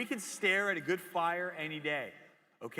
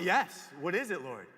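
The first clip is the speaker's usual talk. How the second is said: louder call, reaching toward a distant voice; 4 dB louder than usual. Retold or imitated. Boy answering God's voice, calling out loud. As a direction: call it out to be heard. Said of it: "And you call out".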